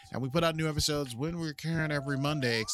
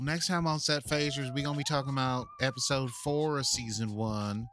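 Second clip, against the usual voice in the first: put-on southern accent. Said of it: "In my southern accent".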